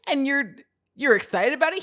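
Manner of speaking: high, loud incredulous rant through laughter; can't believe it, laughing; mock-exasperated laughing plea; laughing disbelief. Louis retold incredulous, laughing.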